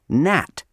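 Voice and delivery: "nat" with a flat American a. Shown as a demonstration. Teacher showing the American "not". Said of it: "should be pronounced".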